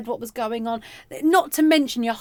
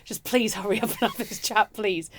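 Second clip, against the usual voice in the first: soft pleading under the covers; quiet desperate plea; 4 semitones lower, 7 dB quieter than usual. Retold or imitated. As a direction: beg quietly, hoping nobody hears.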